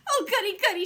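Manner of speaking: high, loud gleeful goody goody; thrilled. Acted. May thrilled by the drawing task, high loud glee. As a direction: bubble over with delight. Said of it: "May squealed, very thrilled".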